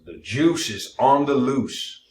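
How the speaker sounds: punchy ad slogan, drawn out slowly. Retold or imitated. Cohost quoting a juice slogan as an ad. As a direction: sell it like an old TV ad. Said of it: "His slogan was".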